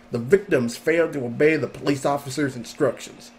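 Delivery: put-on hick Southern accent reading; deep south accent. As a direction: read it like a redneck. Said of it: "what should I make this person sound like?".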